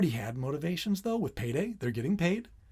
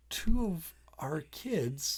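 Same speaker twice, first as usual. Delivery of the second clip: whisper; 4 dB quieter, much slower than usual. Real, not acted. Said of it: "whispered aside".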